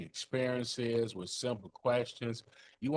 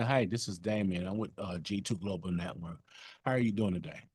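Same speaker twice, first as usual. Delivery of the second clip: monotone voice; 3 semitones lower than usual. Shown as a demonstration. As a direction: let the energy drop, flat and uninterested. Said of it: "Opposed to saying".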